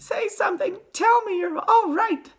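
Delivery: frantic mother's pleading; pleading cry. A narrator's reading. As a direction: beg your child in a high wail. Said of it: "cried Missus Teavee".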